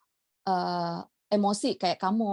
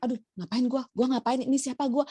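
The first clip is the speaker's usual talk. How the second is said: higher, bewildered self-questioning; acted confusion; 5 semitones higher than usual. Imitating herself waking up with a scattered brain, confused. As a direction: act lost and muddled, pitch lifted. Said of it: "bingung, gue tuh kayak bangun tuh kayak merasa".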